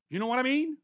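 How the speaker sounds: a stab at a Georgia phrase; playful attempt at a Southern accent. Shown as a demonstration. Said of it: "I picked up a southern phrase".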